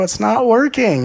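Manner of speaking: high, loud mock whine; hammed-up frustrated protest; whiny complaint. Acted complaint after trying.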